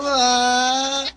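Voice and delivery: long, level mock crying "aah"; mock wail. Jaimito crying from the slap, long mock wail. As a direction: hold out a hammed-up wail. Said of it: "se pone a llorar".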